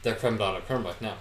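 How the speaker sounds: barely there Irish accent, mostly own voice; a faint try at a thick Irish accent; Irish accent attempt. Shown as a demonstration. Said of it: "I'm trying to use Irish accent".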